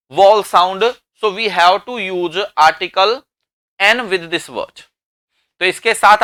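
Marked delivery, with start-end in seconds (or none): 1.2-4.8 very slow, word by word English; slow teaching line. Shown as a demonstration. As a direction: spell it out slowly for learners. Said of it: "slow English teaching line". (धीरे-धीरे अंग्रेज़ी में समझाते हुए)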